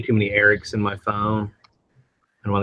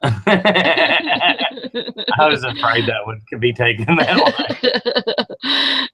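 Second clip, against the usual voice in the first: laughing; 4 semitones higher, much slower than usual. Real, not acted. Laughing at the misread.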